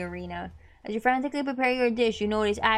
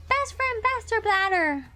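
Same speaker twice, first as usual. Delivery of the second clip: excited call-out; 11 semitones higher, slower than usual. Acted.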